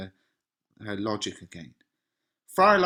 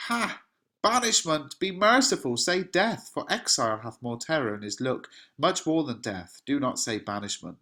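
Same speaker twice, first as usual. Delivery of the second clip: anguished outburst; 3 semitones higher than usual. Acted. Romeo reacts to banishment with a raised, anguished cry. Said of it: "But look at Romeo's reaction".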